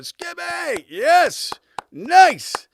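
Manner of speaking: high, loud mock cheers; cheering crew. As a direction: imitate a whole crew hollering approval. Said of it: "the whole crew just going".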